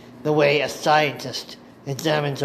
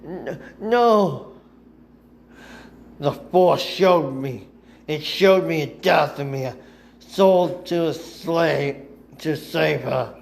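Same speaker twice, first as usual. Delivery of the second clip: pained; 2 semitones higher than usual. Acted. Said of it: "Ventress pained".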